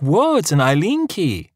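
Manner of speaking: mock awed, high "Eileen" as eye-leen; mock his awed eye-leen, slowly; jeering mockery. Wife mocking her husband, jeering and slow. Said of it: "Parvana jeers".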